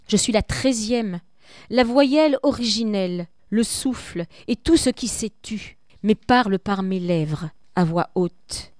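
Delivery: solemn reading of a poem. Acted. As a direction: read it like death itself addressing you. Teacher reads death's lines.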